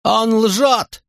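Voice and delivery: high desperate shout; frantic high cry of denial; desperate yell. A narrator's reading. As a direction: scream it in despair. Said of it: "в отчаянии заорал Тинкоми".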